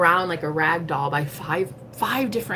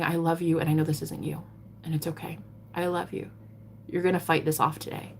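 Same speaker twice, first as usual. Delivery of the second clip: softly retold words of comfort; gentle reassurance; 7 dB quieter than usual. Woman hugging a man in pain, gently reassuring. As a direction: soothe someone you love, quietly.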